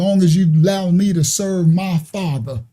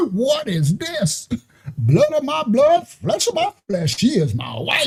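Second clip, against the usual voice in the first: awestruck Adam; 3 semitones higher, 3 dB quieter than usual. Retold or imitated. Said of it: "he said".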